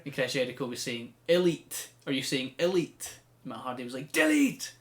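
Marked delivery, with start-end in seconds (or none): 1.3-3.2 raised, puzzled questioning; incredulous query. Retold or imitated. Jericho querying Matt Hardy's word, incredulous. 4.1-4.7 high, loud drawn-out catchphrase; Matt Hardy. Retold or imitated. Matt Hardy answering Jericho, loud high cry.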